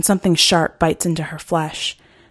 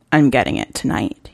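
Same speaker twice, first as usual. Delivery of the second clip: lower, smug hunter voice; 6 semitones lower than usual. Acted. Hunter hinting to the girl about his plans. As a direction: savour the promise.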